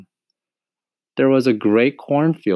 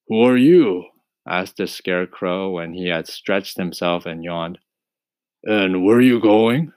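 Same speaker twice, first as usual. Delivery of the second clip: husky scarecrow. Acted. Voices the scarecrow.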